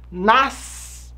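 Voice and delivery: ordinary delivery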